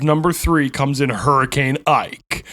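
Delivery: slow, mock-ominous countdown reveal; countdown announcer. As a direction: draw out the name like a spooky list host. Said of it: "why I said it like that".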